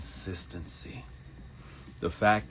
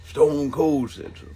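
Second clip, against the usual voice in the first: loud hype; 8 semitones higher, 8 dB louder than usual. Real, not acted. Wrestler reference shout.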